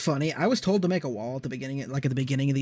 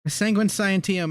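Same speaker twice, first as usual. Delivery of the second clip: high, posh mock British; British accent; 4 semitones higher than usual. Gamer babbling fake-fancy words to friends, in a mock British accent. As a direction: recite it like a pompous Brit. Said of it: "Speak English, man".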